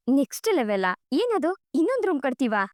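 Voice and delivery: lightly acted surprised questions, lifting in pitch; a touch of startled disbelief; puzzled surprise. Wife questions husband's talk of a next level, mildly surprised.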